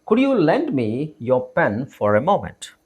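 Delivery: slow, separated phrases for repeating; slow model reading. Shown as a demonstration. Teacher models asking to borrow a pen, slowly and deliberately. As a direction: say it slowly so learners can follow. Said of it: "ನನ್ನ ಜೊತೆಗೆ ಹೇಳಕ್ try ಮಾಡಿ".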